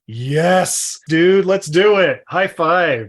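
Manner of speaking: mock-enthusiastic director going all in; excited director. Director agreeing to the writer's idea, excited. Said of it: "And the director's like".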